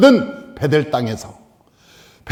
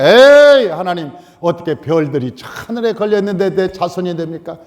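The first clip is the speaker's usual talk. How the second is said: doubting scoff. Retold or imitated. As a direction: play Abraham waving off God's promise in disbelief. Abraham doubting God's promise.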